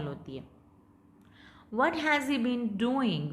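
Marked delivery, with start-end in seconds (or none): 1.7-3.3 slow question rising then falling; suspicious rise-fall. Shown as a demonstration. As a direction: ask with disbelief, tune up then down. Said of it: "पहले देखो rise हुई, फिर fall हुई". (शक भरी rise-fall tone)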